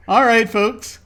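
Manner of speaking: loud, high sign-off; announcer voice. Real, not acted. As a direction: announce it to the audience. Announcing the break.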